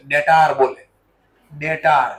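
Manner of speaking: ડેટાર with a long drawn taar, not short ter; southern pronunciation. Retold or imitated. Teacher showing students how southerners say ડેટાર, long aa. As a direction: imitate how they say ડેટાર, stretching the last vowel. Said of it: "ઈ લોકો ડેટર નો બોલે છે".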